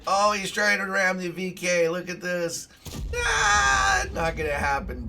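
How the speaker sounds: loud, rising to a high cry on ah; excited outcry. Real, not acted. Streamer reacting to a teammate's ram, loud high outcry. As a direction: yell it as the ram comes in. Watching a ram attempt live.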